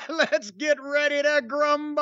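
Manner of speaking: hammed-up ring introduction; parody ring announcer. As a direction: stretch it out like a mock fight announcer.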